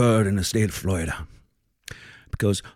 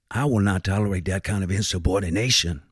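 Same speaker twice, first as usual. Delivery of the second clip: lower, menacing warning from the bench; stern Southern judge; 4 semitones lower, 4 dB quieter than usual. Acted. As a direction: lay down the law, quietly threatening. Judge scolding the court.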